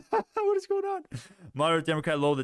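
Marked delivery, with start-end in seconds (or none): 0.1-1.0 high, slow, laughing through it. Real, not acted. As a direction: laugh out the question. Repeats question, laughing.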